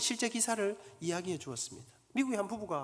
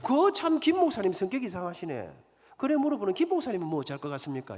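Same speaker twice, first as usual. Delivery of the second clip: loud retort; 4 dB louder than usual. Acted. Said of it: "그러면서 큰 소리로".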